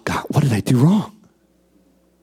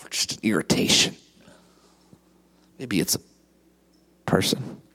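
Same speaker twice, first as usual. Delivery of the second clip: whisper; 11 semitones lower, 5 dB quieter than usual. Real, not acted. Aside to congregation, dropped voice.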